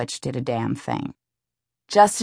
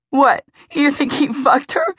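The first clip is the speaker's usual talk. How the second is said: much higher, louder indignant snap; scornful outburst; 12 semitones higher, 6 dB louder than usual. Acted. Emmy retorts to Lee, scornful outburst. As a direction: fling it back in disbelief.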